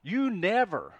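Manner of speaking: loud, high mock accusation; crisis language. Someone accusing a housemate who never helps, mock angry. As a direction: punch it out as a sweeping complaint. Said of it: "all these extreme, uh, uh, words that we use".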